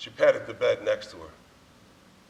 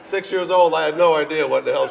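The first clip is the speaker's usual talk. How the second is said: laughing; 3 semitones higher, 10 dB louder than usual. Real, not acted. Laughs while recalling.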